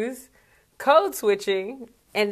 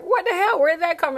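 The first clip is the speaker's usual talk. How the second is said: mock shock; 9 semitones higher than usual. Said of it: "you're like".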